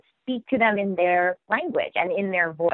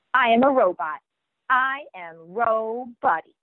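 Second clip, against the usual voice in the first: put-on proud little-boy robot claim; 2 semitones higher than usual. Shown as a demonstration. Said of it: "And I read it like that".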